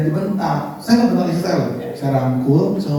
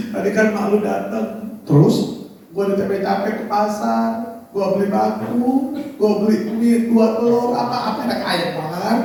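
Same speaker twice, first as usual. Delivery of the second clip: imitated tearful complaint. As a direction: stretch each phrase, mock tearful. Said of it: "Waktu dia nangis begini".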